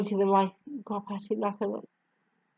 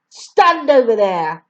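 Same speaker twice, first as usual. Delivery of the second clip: louder curt order; 7 dB louder than usual. A narrator's reading. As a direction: bark the order at him. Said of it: "the Trunchbull ordered".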